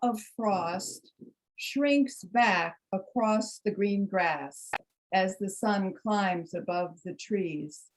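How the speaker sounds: slow, measured poem reading with long pauses; poetry reading. Acted. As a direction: let each image settle, unhurried. Reads her poem aloud.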